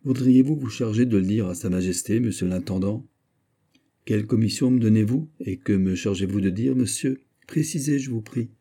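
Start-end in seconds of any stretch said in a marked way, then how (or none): 4.0-8.5 sour and hostile. Acted. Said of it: "d'une voix aigre et toute chargée d'avance d'hostilité".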